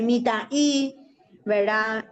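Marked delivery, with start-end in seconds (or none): 0.0-1.0 "mitaí" with the stress on the final "í"; Guaraní word. Shown as a demonstration. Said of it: "que se puede decir". ("mitaí" con acento final)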